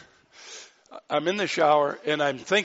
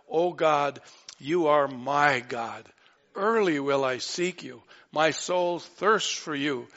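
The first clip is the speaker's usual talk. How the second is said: fervent proclamation. Acted. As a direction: cry the psalm out to God. Preacher proclaims Psalm with force.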